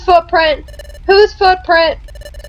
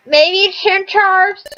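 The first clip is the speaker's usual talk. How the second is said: attempted Boston accent; 3 semitones higher, much slower than usual. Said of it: "I cannot do a Boston accent".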